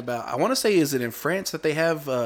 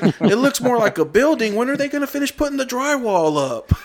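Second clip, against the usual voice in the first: higher, louder mock uncle with a laugh breaking in; uncle's joke punchline; 11 semitones higher, 5 dB louder than usual. Uncle mocking the unfinished-looking tower, higher laughing voice. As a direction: pitch it up and push it, laughing through the punchline. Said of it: "He was like".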